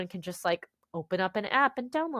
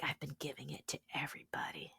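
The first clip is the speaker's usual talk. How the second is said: hushed, low confiding whisper; imitated whisper; 5 semitones lower, 15 dB quieter, faster than usual. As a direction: whisper it like a secret. Retold confiding remark from a fan.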